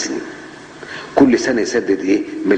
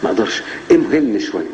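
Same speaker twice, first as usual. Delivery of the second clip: pleading debtor; 3 semitones lower than usual. Retold or imitated. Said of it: "فراح للبنك قال له".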